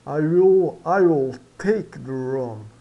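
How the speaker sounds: "I will" said slowly with a clear long I; pronunciation demo. Shown as a demonstration. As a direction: model "I" as ai, slowly. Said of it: "o E final mudo".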